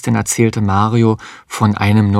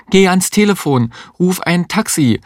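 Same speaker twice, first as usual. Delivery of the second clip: much higher, urgent demand; urgent call; 9 semitones higher than usual. Acted. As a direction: order him in a panic. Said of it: "rief die Existenzialistin". (drängender Ruf, viel höher)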